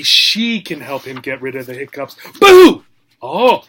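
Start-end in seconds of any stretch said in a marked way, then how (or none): 2.4-2.8 scary boo. Acted. Sister scares the hippo. 3.2-3.6 real little start, sharp gasp-like oh; startled. Real, not acted. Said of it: "Scared myself".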